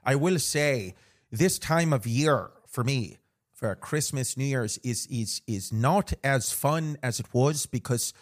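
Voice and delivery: rambling in a playful Irish lilt; put-on Irish accent. Host confiding about holiday season, mock Irish accent. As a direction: keep up the Irish brogue.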